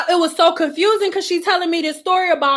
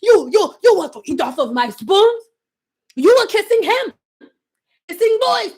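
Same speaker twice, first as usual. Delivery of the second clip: imitating client. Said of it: "client's rant".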